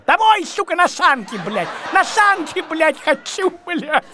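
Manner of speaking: mock whining. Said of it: "И заплакал".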